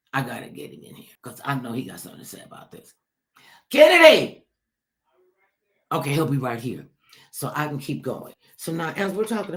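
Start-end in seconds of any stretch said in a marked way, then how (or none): 3.7-4.5 calling out. Real, not acted. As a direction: call him in from far off. Calling a guest into the room.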